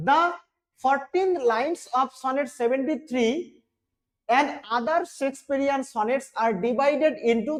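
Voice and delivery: reads each English word slowly and carefully; slow reading aloud. Shown as a demonstration. Teacher reading the text aloud to students, slow and careful. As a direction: dictate it slowly to the class.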